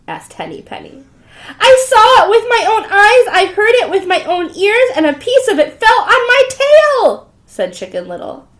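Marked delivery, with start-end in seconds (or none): 1.6-7.3 frantic insisting. Acted. Chicken Little insists in panic.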